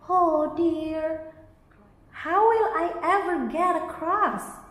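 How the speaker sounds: high, sniffly, worried bee voice; sniffing sadly. A narrator's reading. Stuck bee at the stream, sniffing sadly. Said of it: "he sniffed sadly".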